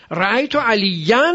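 "علیاً" with a held, rising -yan; accusative ending. Shown as a demonstration. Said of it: "چون مفعوله منصوب شده".

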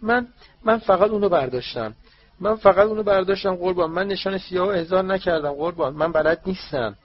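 high, loud house-elf voice begging; an elf protesting her innocence to the officials; tearful elf pleading. Acted.

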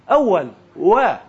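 اول and و from between both lips, as w; slow, firm rounded w in اول، و; correct waw. Shown as a demonstration. Teacher shows waw from between two lips, lip-rounded waw. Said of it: "از بین دو".

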